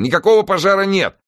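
high, loud insistent bark; roared. A narrator's reading. Newson denying any fire to Helen, roaring. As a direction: roar the denial down the phone. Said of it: "рявкнул Ньюсон в телефон".

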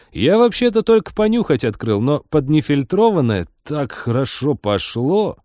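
lively pilot, pitched high, telling his tale; tipsy pilot bragging, animated. Acted. Pilot confesses eating the cat's prize to the girls, animated. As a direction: gush about the treat, pitch leaping up.

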